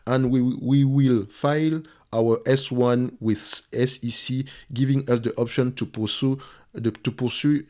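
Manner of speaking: English read haltingly with a French accent; slow, careful English in a French accent. Real, not acted. Analyst reading a company statement to viewers, French-accented English. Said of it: "excusez-moi de mon anglais, mon accent".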